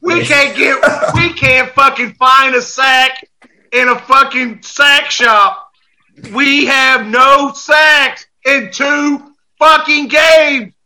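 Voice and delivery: frustrated shout. Real, not acted. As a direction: yell out the frustration about no sacks. Venting about no sacks, shouting.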